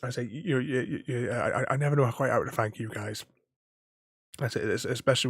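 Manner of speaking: stammering on repeated words; stuttering. Real, not acted. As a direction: catch on each word, stuttering. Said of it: "I have to get this stutter sorted out".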